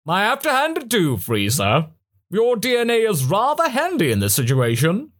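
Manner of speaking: high, triumphant villain voice; gloating Perfect Cell voice. Acted. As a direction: gloat over your new power.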